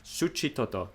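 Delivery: soft imitation of the Spanish accent; putting on the accent. Vlogger repeats the translator's pronunciation, putting on a Spanish accent. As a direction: softly mimic a Spanish pronunciation. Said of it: "Why am I doing the accent?".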